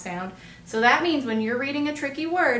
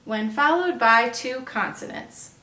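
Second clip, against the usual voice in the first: reciting a rule; 4 dB louder than usual. Shown as a demonstration. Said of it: "this rule says".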